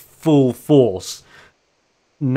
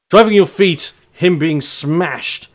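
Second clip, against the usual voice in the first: dramatic; 4 semitones higher, 4 dB louder, slower than usual. A narrator's reading. Narrating wrestling slam dramatically.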